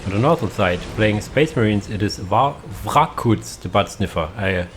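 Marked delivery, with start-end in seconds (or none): 2.8-3.6 Vrakuts said with V and R together, "vra-koots"; corrected pronunciation. Real, not acted. Caster introduces the player playing Space Marines, corrected pronunciation. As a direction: say Vrakuts starting on a "vr" cluster. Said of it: "but it's Vrakuts".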